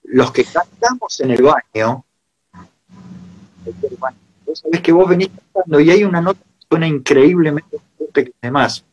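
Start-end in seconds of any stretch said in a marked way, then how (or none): 3.6-8.8 glitching audio. Real, not acted. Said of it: "se está cortando el audio".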